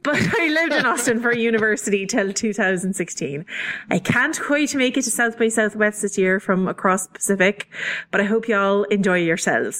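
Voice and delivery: clumsy put-on Irish brogue; mock Irish accent for listener mail; garbage Irish accent. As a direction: keep up a shaky attempt at Irish. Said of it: "my garbage Irish accent".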